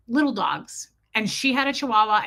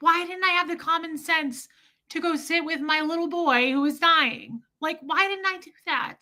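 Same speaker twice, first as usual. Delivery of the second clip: self-reproach; 7 semitones higher than usual. Real, not acted. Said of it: "I'm so pissed at myself".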